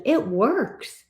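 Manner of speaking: hushed whisper of "It works". Real, not acted. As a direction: breathe "It works" like a secret. Coach confiding about her program.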